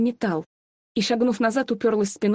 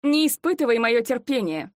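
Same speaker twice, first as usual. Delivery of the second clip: losing patience; 3 semitones higher than usual. Acted. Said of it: "уже не так сдержанно проговорила".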